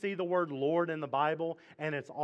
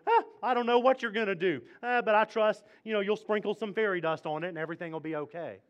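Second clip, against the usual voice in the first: higher, breezy, careless mock prayer; mock passive; 4 semitones higher, 4 dB louder, faster than usual. Mocking the passive believer, airy and higher. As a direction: toss it off like nothing matters. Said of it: "I'm not sitting back going".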